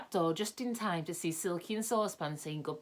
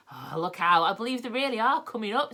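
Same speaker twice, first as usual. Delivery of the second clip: higher, fast and alarmed; 5 semitones higher, 6 dB louder than usual. A narrator's reading. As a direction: blurt it out in a fright. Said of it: "said Joe in alarm".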